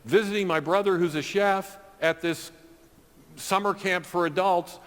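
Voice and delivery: friend's voice. Retold or imitated. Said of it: "And he says".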